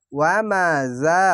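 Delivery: ওয়া মা জা with জা drawn out one beat; slow Quranic reading with the vowel held; one alif stretch. Shown as a demonstration. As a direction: stretch the long a in জা. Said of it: "এক আলিফ টেনে পড়বেন".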